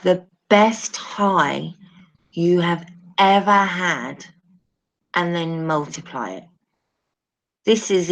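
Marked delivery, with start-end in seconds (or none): 0.0-6.4 slow down to press the point home; slow, stressed. Shown as a demonstration. Stressing it slowly to the listeners. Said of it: "when I say".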